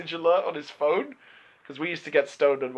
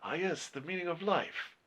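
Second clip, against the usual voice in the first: Chow Yun-fat impression; 4 dB quieter than usual. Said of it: "that's how Chow Yun-fat says it".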